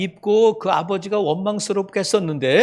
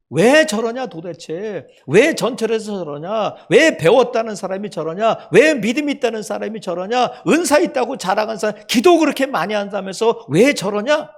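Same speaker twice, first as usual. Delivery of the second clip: judgmental grumbling; 4 dB louder than usual. Retold or imitated. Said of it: "이렇게 말할 수 있지만".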